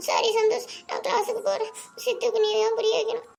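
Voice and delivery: tearful. Acted. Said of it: "நீ first கண் கலங்குறத நிறுத்து".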